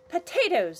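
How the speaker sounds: loud, clipped "Potatoes!"; loud exclamation. Acted. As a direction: snap out "Potatoes!". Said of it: "said Annabelle".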